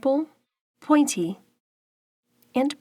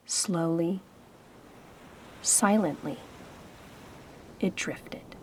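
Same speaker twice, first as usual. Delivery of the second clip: softer and softer until a whisper; fading to silence; 3 semitones lower, 9 dB quieter than usual. A narrator's reading. Narrator lets the crayon float away, fading whisper. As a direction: let the words drift off into nothing.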